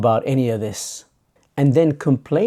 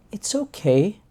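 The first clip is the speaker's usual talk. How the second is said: high-pitched, lightly voiced soothing; mild reassurance; 7 semitones higher, 3 dB quieter than usual. Other person granting permission to the angry one, mildly reassuring.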